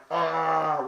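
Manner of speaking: short pained cry; a mock cry of pain. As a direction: cry out as the gas hits your eyes. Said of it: "I'm going".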